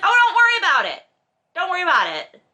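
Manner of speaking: high, loud, fast brush-off; mock dismissive husband. Host mocks the husband brushing off his wife's worries, high and hammed up. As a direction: toss it off breezily, hammed up.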